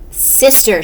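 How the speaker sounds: mild shout. Acted. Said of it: "shouted Baby".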